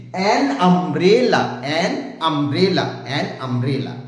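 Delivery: অ্যান punched before umbrella; drilling the phrase for the class; stress on অ্যান. Shown as a demonstration. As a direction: lean on অ্যান each time. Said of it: "এনটা হলো এখানে medicine".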